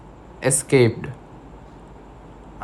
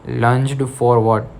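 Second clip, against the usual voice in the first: slow dictation; slower than usual. Shown as a demonstration. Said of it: "first underline".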